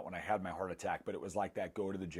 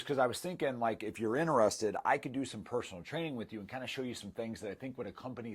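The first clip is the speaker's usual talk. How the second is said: higher, quicker, friendly coaxing; sweet gentle approach; 4 semitones higher than usual. Retold or imitated. Trainer gently offering help at the gym, sweetly coaxing. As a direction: ease him into the idea kindly, voice lifted. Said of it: "That's how she worded it".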